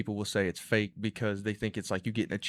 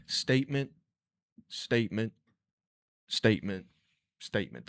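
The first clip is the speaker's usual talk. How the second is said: beat, pause, beat, showing a comic's rhythm; showing a comedian's rhythm to co-hosts, spaced statements; paused beats. Shown as a demonstration. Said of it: "it was, like".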